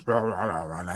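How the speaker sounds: low string of mock snarling "rah"s; imitated growls. Player mimicking Witka's Leonin cussing, mock growls. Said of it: "it's just growls and snarls".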